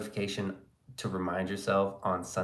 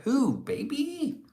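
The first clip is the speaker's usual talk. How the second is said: mock high drawl; much slower than usual. Mock high drawn reply.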